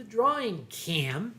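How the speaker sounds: "drawing cam" said as "droing cam" in a Philadelphia accent; Philly drawing cam. Real, not acted. Streamer explaining the drawing cam to viewers, in a Philadelphia accent. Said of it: "that's the Philadelphia accent".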